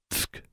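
tongue click of disapproval; disapproving tsk. Acted. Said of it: "Constance said".

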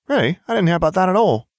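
put-on high, quick girlish voice; voiced Ginevra. A narrator's reading.

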